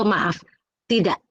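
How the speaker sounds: firm polite no. Shown as a demonstration. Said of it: "harus ada kata maaf itu".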